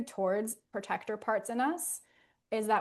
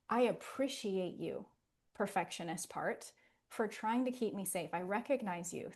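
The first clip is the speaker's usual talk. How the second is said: grateful appreciation; 4 dB quieter than usual. Shown as a demonstration. Thanking your inner perfectionist, soft and grateful. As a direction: speak kindly to the part that protects you.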